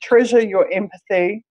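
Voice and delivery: hoarse, croaky speaking voice. Real, not acted. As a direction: talk through a croaky throat. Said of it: "my croaky voice".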